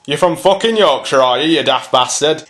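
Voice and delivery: put-on blunt Yorkshire accent. Answering a call for Yorkshire, Yorkshire accent. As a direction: put on Yorkshire for a cheeky jibe.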